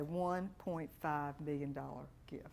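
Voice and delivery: slow, whispered reveal; dramatic whisper. Real, not acted. Coach reveals a client's huge gift in a slow whisper. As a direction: whisper the big news.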